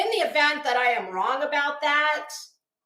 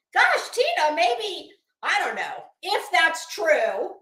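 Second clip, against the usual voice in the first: mock sympathy; 4 semitones higher, slower than usual. Mock pity aimed at Tina.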